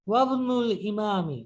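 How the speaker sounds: ওয়াবনুল said slow as one joined word, no hamza; slurred-together wa-bnu. Shown as a demonstration. Teacher showing the silent hamza, slow. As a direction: run wa into bnu, slowly. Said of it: "ওয়াবনু একসাথে".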